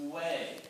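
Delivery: "way" led in by a long oo hum; voiced W. Shown as a demonstration. Coach teaching choir the next sound, voiced-W "way". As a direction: hold the w of "way" as a voiced oo. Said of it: "the next big sound is".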